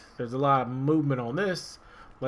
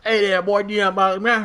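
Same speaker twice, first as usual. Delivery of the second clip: put-on thick Southern accent; 9 semitones higher, 7 dB louder than usual. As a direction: belt it out like a backwoods Southern cousin. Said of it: "that accent was so thick".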